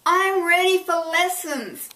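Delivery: high and loud, eager; loud booming voice. A narrator's reading. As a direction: announce it to the whole house. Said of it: "Emily said in her Emily voice".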